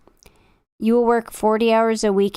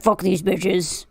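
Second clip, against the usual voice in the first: scowling grumble; 2 semitones lower, much slower than usual. Retold or imitated. Angry viewer glaring at streamers, slow grumble. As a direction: drag it out like a sulking angry viewer. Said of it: "He's like".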